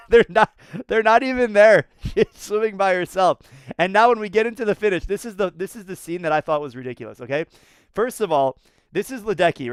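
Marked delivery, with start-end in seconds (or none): 0.1-3.4 amused disbelief. Real, not acted. Laughing at empty pool.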